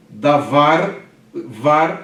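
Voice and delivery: davar, then var stressed loud on its own; syllable demo. Shown as a demonstration. Teacher to class splitting syllables, loud and clear. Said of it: "da primeira e var a segunda".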